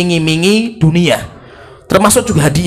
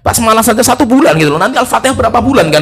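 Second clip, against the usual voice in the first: retold complaint of a bored student, rising higher; fed-up student; 5 semitones higher than usual. Student complains to the sheikh about a month on basmalah, fed up. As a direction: plead with mild exasperation, pitch climbing. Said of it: "Akhirnya bosan juga".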